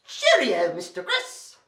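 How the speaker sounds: playful British accent goodbye. Shown as a demonstration. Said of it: "Now say it with that British accent".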